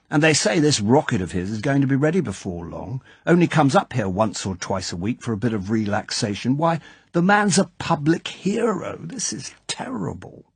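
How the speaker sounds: a hint of a worried old lord; dismayed club chairman. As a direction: wring your hands over the coming scandal. Basildon dismayed at the scandal.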